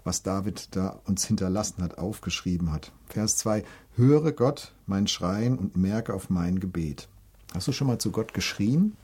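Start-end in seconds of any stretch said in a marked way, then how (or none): 3.9-7.1 drawn-out, solemn psalm line; slow reverent recitation; slow scripture quote. Acted. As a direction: let each word of the prayer land.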